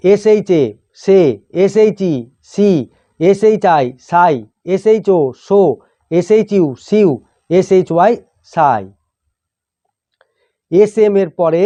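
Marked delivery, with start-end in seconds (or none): 0.1-8.8 teacher's measured spelling recitation, pausing between items; pronunciation drill. Shown as a demonstration. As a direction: spell out the letters, then sound the blend. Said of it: "উচ্চারণ এইভাবে হয়". (বানান করে উচ্চারণ শেখানো)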